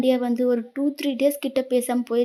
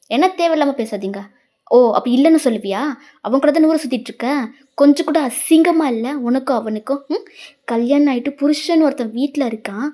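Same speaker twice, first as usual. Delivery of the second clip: scornful angry scolding; 3 dB louder than usual. Acted. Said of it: "அப்படின்னு சொல்றான்".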